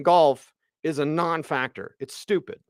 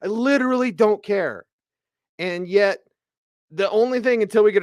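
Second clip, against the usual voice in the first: real irritation, pitched up and pushed; fed up and venting at the fake controversy; pissed-off rant; 4 semitones higher than usual. Real, not acted. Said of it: "as I'm ranting today".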